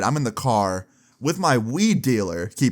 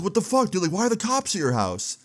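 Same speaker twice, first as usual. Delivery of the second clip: pitched up high, imitating a stunned buddy; mock shocked friend; 9 semitones higher than usual. Friend hearing the cops are at the house, imitated shocked. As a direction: retell his disbelief, voice jumping high.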